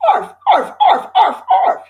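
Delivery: very high yappy puppy arfs; puppy barking. A narrator's reading. Excited puppy bouncing at the fire chief's feet, yappy barking. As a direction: yip like an excited little puppy.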